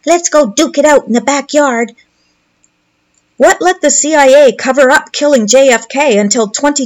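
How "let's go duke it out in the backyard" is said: put-on higher kid voice daring a fight; mock a boy spoiling for a scrap; lightly voiced bratty child; childish taunt. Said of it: "What adult talks like that?".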